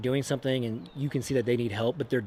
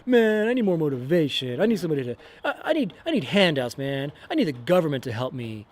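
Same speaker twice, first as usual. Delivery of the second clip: mock whiner; 3 dB louder than usual. Mocking a complainer wanting handouts.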